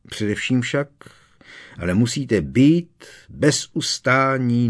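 a teacher's firm, loud lecturing voice; stern Professor Moody. Acted. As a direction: warn the class like a hard old Auror.

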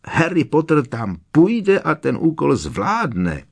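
high squeaky elf shriek; shrieking house-elf. A narrator's reading. Dobby shrieks at Harry to hurry. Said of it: "vřeštil skřítek".

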